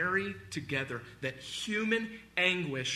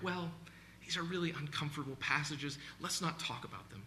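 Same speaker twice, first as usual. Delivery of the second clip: dismissive aside; 7 dB quieter than usual. Acted. Preacher voicing believers who avoid hard passages, quiet dismissive aside. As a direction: gently imitate someone brushing it off.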